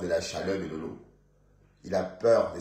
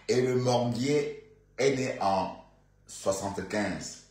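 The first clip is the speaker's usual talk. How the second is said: slow, unsure; 3 semitones higher, slower than usual. Shown as a demonstration. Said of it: "non, qu'est-ce qu'il raconte?".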